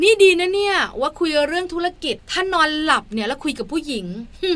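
retold jibe to nobody in particular; mock sarcastic muttered threat; pointed sarcasm. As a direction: say it into the air, meant to be overheard. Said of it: "หลับตาแล้วก็พูดมาลอยๆว่า".

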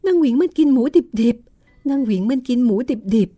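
put-on old maid sprawled on floor, babbling in fear; frightened babbling. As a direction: gasp it out still terrified. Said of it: "แล้วก็เอาแต่ร้องบอกว่า".

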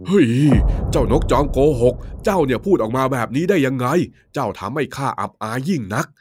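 mildly angry king ordering punishment; loud angry king. Acted. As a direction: scold the lying bird and call the guards. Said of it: "พระราชาได้พูดเสียงดัง".

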